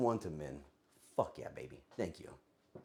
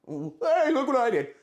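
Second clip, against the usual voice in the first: mock brag; 11 semitones higher, 6 dB louder than usual. Mocking a chatter's brag.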